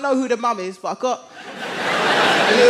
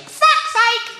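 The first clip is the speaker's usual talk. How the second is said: high shouted curse; sudden hammed-up high yell; exasperated outburst; 12 semitones higher than usual. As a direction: lose patience and yell it high. Dad's patience finally snaps.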